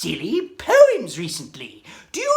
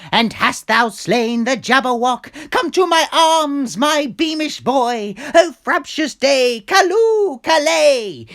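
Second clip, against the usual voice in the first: joyful father; 3 semitones higher, 5 dB louder than usual. Acted. Father's joyful cry in poem.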